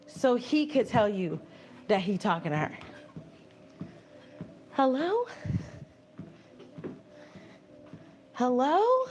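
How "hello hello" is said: calling out. Real, not acted. Calling out to silent chat.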